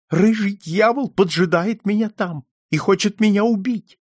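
put-on high, agitated old client; frightened old man. A narrator's reading. Old man tells detective of red devil, high and frightened. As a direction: blurt out the danger in a high voice.

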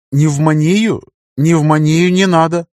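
high, loud alarmed refusal. A narrator's reading. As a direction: recoil at the word in alarm. Son alarmed at pneumonia.

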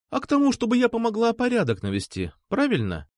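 a hint of a pouting girl teasing; lightly voiced sulky girl. A narrator's reading. Nastya teasing, higher.

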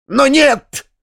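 high screeching cry; shrieking. A narrator's reading. Foma leaping up from the chair, shrieking no. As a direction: explode with a squeal. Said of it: "с прибавкой какого-то необыкновенного визга".

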